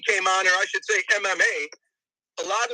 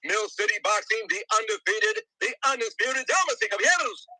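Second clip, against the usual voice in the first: ring announcer. Pretend. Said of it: "An announcer".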